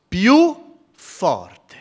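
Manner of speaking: Più forte thrown out loud and high. Shown as a demonstration. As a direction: belt the repeat harder.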